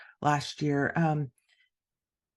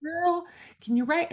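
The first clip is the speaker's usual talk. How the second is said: put-on much higher, loud teasing girl voice; sassy mocking mentor; 10 semitones higher, 4 dB louder than usual. Author replaying mentor's jab, high and loud. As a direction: squeal it high like a cheering friend.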